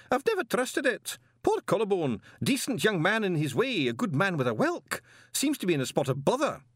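high put-on elderly wizard voice; fussy old wizard. A narrator's reading. Chair of indefinite studies grumbles to colleagues, high old-wizard voice. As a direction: play a doddery old don. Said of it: "said the chair of indefinite studies".

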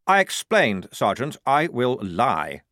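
a keen lieutenant pleased with his plan; fussy young officer. Acted. Lieutenant answers sergeant.

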